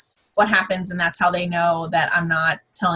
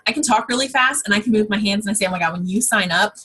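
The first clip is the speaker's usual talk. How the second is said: quick excited patter, pitch unchanged; fast, excited talk. Shown as a demonstration. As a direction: rattle it off to show excitement. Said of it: "start talking fast and excitedly".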